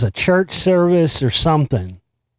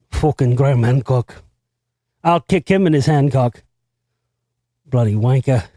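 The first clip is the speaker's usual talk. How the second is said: half-convincing Scottish accent; mock Scottish accent; 2 semitones lower than usual. Shown as a demonstration. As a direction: keep up a put-on Scots accent. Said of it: "I could do a more convincing Scottish accent".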